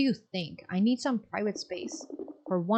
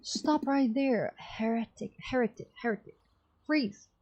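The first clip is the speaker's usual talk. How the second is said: commanding, raised-pitch challenge; stern zealot guard; 4 semitones higher than usual. Acted. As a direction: halt the heretic with authority. Guard confronting the cultist.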